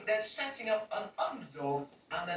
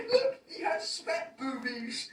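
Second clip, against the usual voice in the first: laughing; 7 semitones higher, slower than usual. Real, not acted. Laughing at the fat joke.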